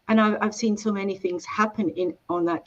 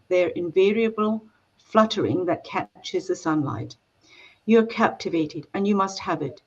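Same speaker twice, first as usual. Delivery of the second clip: reading aloud. Acted. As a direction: read it like the opening of a novel. Author reads book opening aloud.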